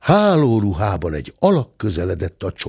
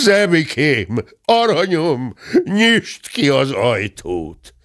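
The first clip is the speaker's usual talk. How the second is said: slow, higher-pitched wheedling; coaxing plea; 4 semitones higher, slower than usual. Acted. Gentleman begging the cub to open the door, coaxing. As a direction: coax sweetly, stretching the words.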